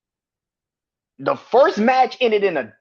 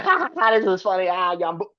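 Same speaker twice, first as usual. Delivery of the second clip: mock laughing. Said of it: "y'all laughing like".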